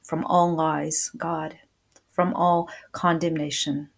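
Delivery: earnest prayer winding down to amen; closing prayer. Real, not acted. Closes a prayer.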